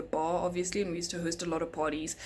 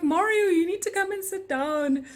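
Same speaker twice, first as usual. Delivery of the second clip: firm instruction; 11 semitones higher, 4 dB louder than usual. Retold or imitated. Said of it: "And I'm like".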